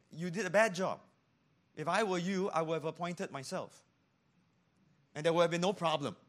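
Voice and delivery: a mock arrogant gripe; smug complainer. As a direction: brag it like a know-it-all. Voicing complainer against God.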